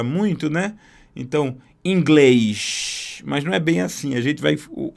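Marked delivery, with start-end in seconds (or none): 1.8-3.2 "inglês" with a hushing final s, like a Rio accent; slow "inglês" ending in a hushed sh; carioca-style inglês. Shown as a demonstration. Teacher showing how a carioca says "inglês". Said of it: "Parece um carioca falando inglês".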